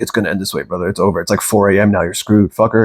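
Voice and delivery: lightly voiced ego, low and dismissive; taunting ego. Ego telling the man it's over, low-key taunting. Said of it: "The ego's like".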